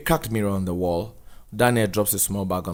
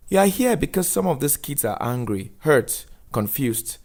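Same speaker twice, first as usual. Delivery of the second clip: a lightly raised, firm social worker; measured counsellor setting the rules; 5 semitones higher than usual. Acted. Missus Dube briefing Daniel before his talk, lightly voiced firm counsellor.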